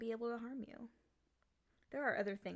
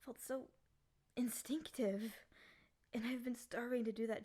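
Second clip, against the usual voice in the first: whisper. Acted. After sudden kiss.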